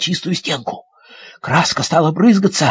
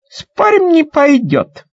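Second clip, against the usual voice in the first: put-on girl's challenge; 8 semitones higher, 3 dB louder, slower than usual. Kids arguing, girl's challenge.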